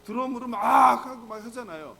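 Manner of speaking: imitating a worked-up praise session; mock frenzied praise. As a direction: blast out the 막 like crashing drums. Mimics frenzied drum-driven praise.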